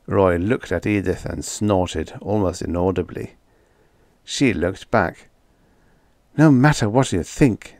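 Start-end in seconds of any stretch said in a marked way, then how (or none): none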